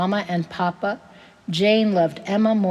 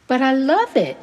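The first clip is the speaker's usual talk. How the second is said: higher, louder eager plea; sudden burst of begging, pitched up; 6 semitones higher, 5 dB louder than usual. A narrator's reading. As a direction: plead like an eager child. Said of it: "Jane begged".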